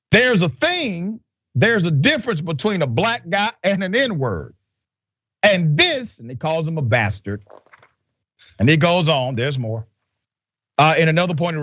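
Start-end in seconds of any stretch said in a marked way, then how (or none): 0.1-6.2 imitating the jailer. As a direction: mimic the old jailer mockingly. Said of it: "I'm trying to do it in the spirit of the jailer".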